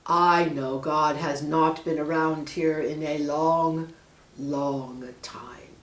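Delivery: menacing snake. Acted.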